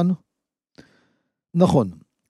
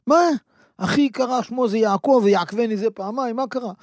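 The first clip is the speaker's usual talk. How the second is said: shocked Esau; 5 semitones higher than usual. Acted. Esau shocked at lost blessing.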